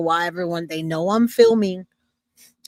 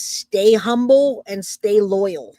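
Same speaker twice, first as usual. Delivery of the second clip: slow reading; 4 dB louder, slower than usual. Shown as a demonstration. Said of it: "And then it says".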